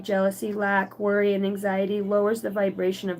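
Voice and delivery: measured spiritual reading; read-aloud card message. Acted.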